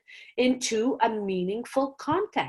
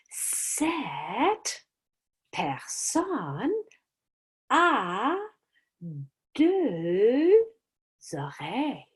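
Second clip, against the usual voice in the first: secretive whisper; much slower than usual. Shown as a demonstration. Teacher whispering the next clue to draw students in. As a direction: let them lean in to hear.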